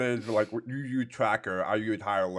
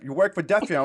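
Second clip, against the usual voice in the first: loud, higher call across the street; shouting stranger; 7 semitones higher, 7 dB louder than usual. Retold or imitated. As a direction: shout it from the next car over. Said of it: "He's like".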